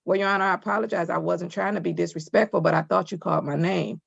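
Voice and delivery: measured, polite courtroom apology; respectful apology. Shown as a demonstration. Judge models how a defendant should apologize, respectful. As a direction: say it evenly and politely, without pushing. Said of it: "the appropriate thing to say is".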